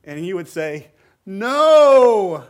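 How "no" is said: put-on loud, higher shouted "No," like a parent stopping a child; emphatic no. Parent answering a child who asks to rob again: loud, higher emphatic no. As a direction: bark "No," out as a flat refusal.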